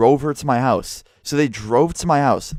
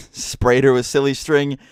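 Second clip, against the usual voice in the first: laughing; 3 semitones higher, slower than usual. Real, not acted. Laughing while telling the prank.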